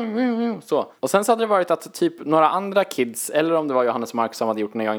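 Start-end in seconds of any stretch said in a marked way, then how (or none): 0.0-0.6 high little humming swooshes; imitated gliding noise. Showing how the miniskis went down, playful humming. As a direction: hum the skis sliding downhill. Mimics skiing down the slope.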